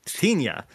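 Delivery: 'Tina' turned alien with a -nya ending; added Y sound. Shown as a demonstration. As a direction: punch out 'Tina' with a Y before the final A. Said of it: "they add a Y sound".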